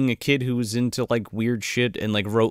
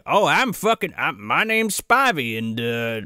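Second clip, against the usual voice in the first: farmer Spivey; 3 semitones higher than usual. Retold or imitated. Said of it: "we get the lore bomb dropped of like".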